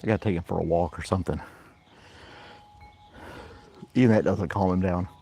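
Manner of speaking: breathless after running; panting slightly between words; out of breath. Real, not acted. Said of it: "I'm out of breath".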